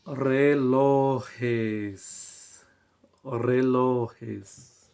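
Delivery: Relojes stretched slowly; drawn-out model answer. Shown as a demonstration. Teacher gives the plural relojes to students, drawn out. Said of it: "¿Cómo es el plural".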